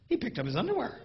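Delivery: lightly voiced impressed wife; a hint of a pleased wife noticing; a mildly surprised wife voice. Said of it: "She'll walk in".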